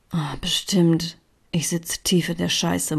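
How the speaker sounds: a breathy murmur, slow at first. A narrator's reading. Katinka answers Lea in dread, murmured under her breath. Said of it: "murmelte ich".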